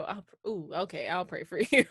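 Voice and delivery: mock smug hesitation; condescending. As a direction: mimic a sneering friend. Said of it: "and then you go".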